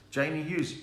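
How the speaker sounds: ordinary talk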